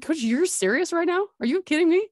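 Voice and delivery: can't believe what coach is saying; pleading disbelief at coach. Retold or imitated. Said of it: "I'm like".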